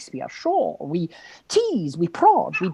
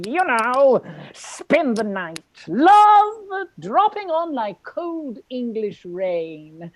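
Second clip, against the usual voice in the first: poetry recital. Acted. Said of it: "recites his bad poetry joyfully".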